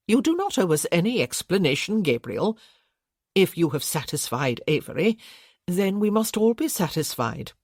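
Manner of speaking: fussy gentle aunt smoothing things over; Aunt Matilda voiced. Aunt Matilda reassures Gabriel.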